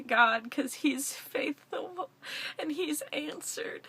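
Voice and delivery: slow, voice catching with tears; moved to tears by gratitude; tearful. Real, not acted. To friends who prayed, tearfully grateful. Thanking supporters, emotional.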